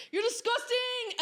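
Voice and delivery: high, slow, loud telling-off; retold shout. Scolding men at the statue, loud and high. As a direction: call out the men, shocked. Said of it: "I was like".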